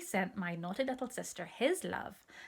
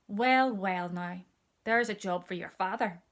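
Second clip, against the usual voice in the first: good-natured coal man; 6 dB louder than usual. Acted.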